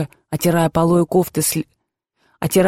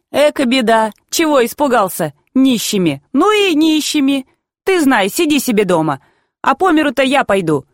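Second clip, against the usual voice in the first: lilting higher voice, making light of it; light laughing reassurance; 6 semitones higher than usual. A narrator's reading. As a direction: brush the fear away cheerily. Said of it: "тихонько легко засмеялась". (легко, ободряюще, будто посмеиваясь)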